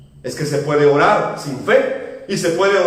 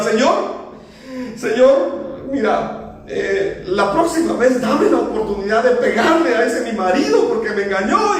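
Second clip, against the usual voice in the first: mock weeping plea, pitched up; imitated tearful prayer; 4 semitones higher than usual. Preacher imitates a sister praying at the altar, mock-tearful. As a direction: imitate a woman crying out to God. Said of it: "así llorando con su lágrima".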